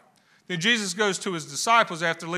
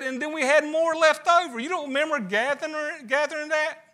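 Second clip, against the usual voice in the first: incredulous rebuke; 9 semitones higher than usual. Retold or imitated. Jesus rebuking disciples, high.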